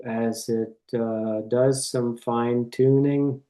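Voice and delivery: calm meditation voice with long pauses; guided meditation. Real, not acted. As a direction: guide listeners gently, one phrase at a time.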